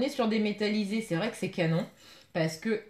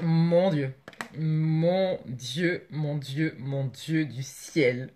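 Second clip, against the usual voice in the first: awed exclamation; 7 semitones lower, much slower than usual. Real, not acted. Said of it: "Désolée, j'ai crié".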